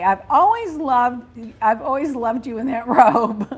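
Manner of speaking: breaking up mid-line; giggling at the robe line; laughing through it. Shown as a demonstration. Host reading joke to cohost, cracking up.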